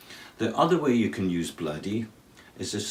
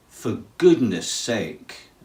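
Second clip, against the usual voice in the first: exasperated exclamation; 2 semitones higher, 5 dB louder, much slower than usual. Shown as a demonstration. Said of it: "an expression of surprise".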